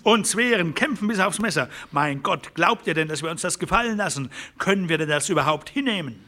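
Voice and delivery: high, fast and fierce; defiant rallying. Acted. A rancher urging the others to resist, fiercely. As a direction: rouse the men to fight.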